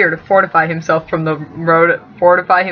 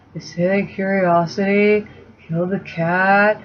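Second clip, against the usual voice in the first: a hint of a dazed stoner; stoner Sam; 4 dB quieter than usual. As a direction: mellow stoner voicing Sam. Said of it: "voicing Sam like a stoner".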